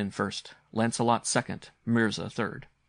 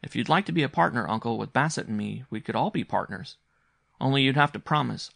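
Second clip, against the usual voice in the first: put-on lightly raised, eager child voice; earnest young boy; 3 semitones higher, 4 dB louder than usual. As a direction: invite uncle in as a solemn little partner. Boy offers uncle a partnership.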